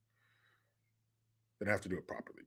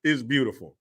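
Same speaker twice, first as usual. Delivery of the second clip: excited. Retold or imitated. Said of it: "and I was like".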